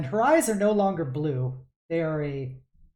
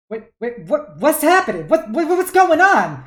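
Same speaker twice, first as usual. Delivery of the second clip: much higher and louder, rising panic; panicked dad; 11 semitones higher, 11 dB louder than usual. Acted. Dad panicking as rocks crash around the shop, loud and high. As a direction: shout in alarm as the shop shakes.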